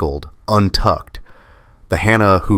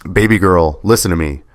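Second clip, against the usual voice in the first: gentle and firm. Acted. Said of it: "My voice was gentle, firm".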